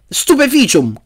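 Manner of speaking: high-pitched incantation cry; yelled spell. A narrator's reading. Harry aims at the spider's belly, yelling. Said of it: "e urlò".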